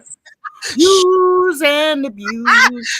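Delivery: mock Italian New Yorker, stretched out at the end; Italian New Yorker accent. Host riffing on "youse", mock Italian New York accent. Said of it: "Use like an Italian".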